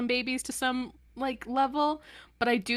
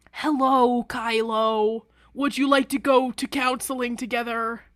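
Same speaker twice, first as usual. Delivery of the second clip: lightly voiced villain, overly courteous; mock polite Mark; 4 dB louder than usual. Mark inviting Kylo to counseling, mock politeness. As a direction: greet him like a sweetly menacing host. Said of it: "And then Mark is like".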